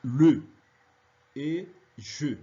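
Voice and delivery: le and je with the final E clearly sounded; French schwa demo. Shown as a demonstration. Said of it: "Se pronuncia como".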